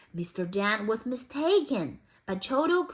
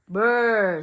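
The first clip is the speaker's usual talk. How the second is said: cat purr; 4 dB louder than usual. Acted. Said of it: "said the cat".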